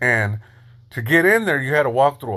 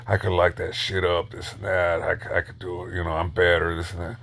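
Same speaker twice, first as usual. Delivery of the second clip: dismissive Drifter; 7 semitones lower, 6 dB quieter than usual. Retold or imitated. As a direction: boast lazily, low and soft. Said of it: "he's saying straight up".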